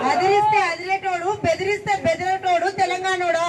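rising rally shout; defiant shout. Real, not acted. Repeated louder to the crowd.

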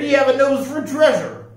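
high-pitched storybook captain's praise; impressed pirate proclamation; admiring declaration. A narrator's reading. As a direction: declare it grandly, voice swung up. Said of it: "Jack declared".

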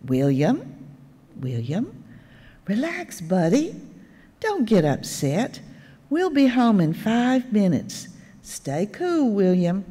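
a light touch of a patient grandpa; controlled voice. Retold or imitated. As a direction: hold it together while soothing the child. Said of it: "in a controlled voice".

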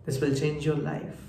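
slow, softened quoted voice; quoted soft promise. Retold or imitated. Girl with headphones offering him a song, soft and slow. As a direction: say it slowly and softly, as a promise. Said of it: "headphones খুলে বলল".

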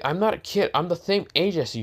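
high-pitched indignant protest. Retold or imitated. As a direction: protest being called a kid. Girl objects to being called kid.

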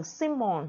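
symbol with the stress on SYM; SYM-bol, first syllable stronger. Shown as a demonstration. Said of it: "nhấn âm một". (symbol: nhấn âm một)

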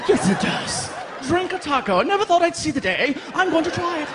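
high, posh mock-British voices; mock British accent. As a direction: ham up a proper Englishman. Posh foreigners imagined.

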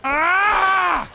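high loud frustrated yell; frustrated scream. Real, not acted. Gamer after failing the jump, loud frustrated yell. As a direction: let out a raw frustrated shout. Another fall.

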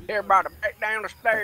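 mock call-out. Echoes the game character's call.

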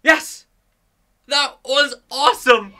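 loud, high burst of real elation; triumphant shout. Real, not acted. Gamer celebrating a cleared level, triumphant shout. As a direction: cheer it out, thrilled.

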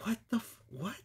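breathy whisper, cut off mid-curse; whispered disbelief. Retold or imitated. Weasel hearing about the shark dude, whispered disbelief. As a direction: whisper it, stunned and lost. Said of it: "and he's just like".

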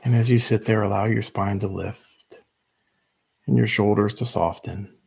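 measured meditation guide with long pauses; unhurried instructions, leaving room to breathe between phrases; guided meditation. Real, not acted. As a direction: lead them gently into stillness, phrase by phrase.

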